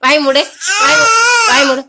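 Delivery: loud, insistent repeated commands; real scolding, pitch jumping up at its peak; firm loud hushing. Real, not acted. Hushing the crying child over the wailing.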